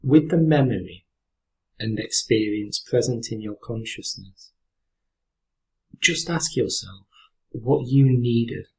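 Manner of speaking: calm, unhurried meditation guide with long pauses; guided meditation. Real, not acted. Teacher guiding listeners through a breathing exercise, calm meditation voice. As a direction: lead them gently through the breath, leaving space after each phrase.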